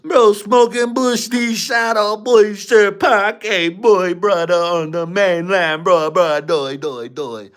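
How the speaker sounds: high, drawn-out mock Jamaican accent. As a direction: ham up a loud, slow Jamaican patois.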